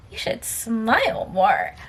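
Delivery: slow, scornful echo; drawn-out mock quote; mocking repeat. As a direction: draw out his words with contempt. Repeats his remark in disbelief.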